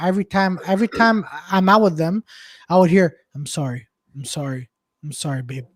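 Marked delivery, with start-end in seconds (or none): 3.3-5.7 meek apology. Retold or imitated. Friend apologizing to girlfriend.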